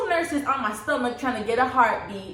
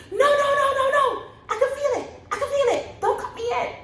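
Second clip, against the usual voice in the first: retold yelling; much faster than usual. Mother yells at the doctor not to cut yet, high and laughing. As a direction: shout it half-laughing, in a panic. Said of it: "I started yelling".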